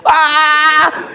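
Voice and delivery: a sharp pained cry of effort under a heavy weight; strained lifting shout. Retold or imitated. Father lifting a weight, shouts in strain. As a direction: let out a strained shout as the arm gives.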